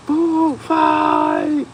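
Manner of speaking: high, loud cafeteria shout; yelled. Retold or imitated. Kid yelling across the cafeteria, loud. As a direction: yell it to start the chaos.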